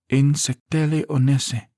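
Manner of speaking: Insectele onese spoken high and slow, elegantly; elegant Elvish reading. A narrator's reading. Zarina reading the Elvish words back, softly elegant. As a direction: roll out Insectele onese gracefully and slowly. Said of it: "Zarina's softly spoken voice suits the words".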